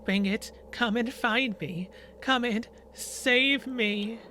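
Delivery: slow, pleading ghost voice; ghostly voice. Acted. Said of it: "you hear a ghostly voice coming from behind you like an echo".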